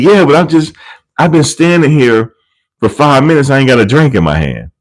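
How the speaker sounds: hammed-up impatient guest; mock whine. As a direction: complain like you're hard done by. Man complaining again.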